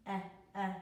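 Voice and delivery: eh, eh as a clipped vowel; short e sound. Shown as a demonstration. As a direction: say the short e twice. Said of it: "It's the short E sound".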